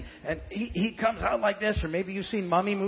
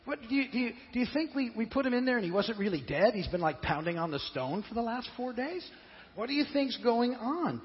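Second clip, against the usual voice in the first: incredulous; 6 semitones higher than usual. Retold or imitated. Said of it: "they're all thinking, like".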